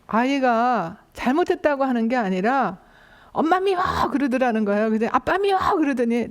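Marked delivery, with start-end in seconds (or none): 3.3-3.8 put-on high-pitched kid voice, pouting; 삐친 아이 목소리; sulky little child. Child protesting after being hit. 5.1-5.6 put-on high-pitched kid voice, pouting; 삐친 아이 목소리; sulky little child. Child protesting after being hit.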